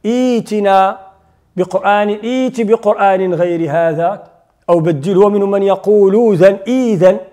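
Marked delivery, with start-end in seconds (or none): 0.0-4.2 إيت with the hamza voiced clearly at the start; pronunciation demo. Shown as a demonstration. Teacher shows students how to start with hamzat al-wasl. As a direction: carefully sound out إيت بقرآن. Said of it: "بحال أوتمنا، إيتنا".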